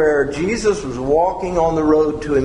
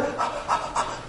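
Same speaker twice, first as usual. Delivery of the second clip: a quick unvoiced gasp for air; breathless little gasp; mock gasp; 10 dB quieter than usual. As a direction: gasp like you ran all the way. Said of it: "they're out of breath".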